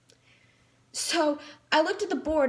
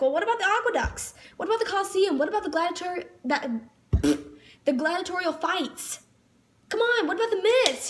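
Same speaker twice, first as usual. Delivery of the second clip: a touch higher listing protests; exasperated protest; 3 semitones higher than usual. Retold or imitated. Student protests the teacher skipped Roman topics, mildly exasperated. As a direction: pile up the demands. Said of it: "And I'm just like".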